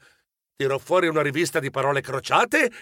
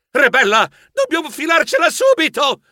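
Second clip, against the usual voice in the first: higher, urgent exclamation; proposta allarmata; 10 semitones higher, 4 dB louder than usual. A narrator's reading. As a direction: urge a partner to get away at once. (proposta urgente e concitata)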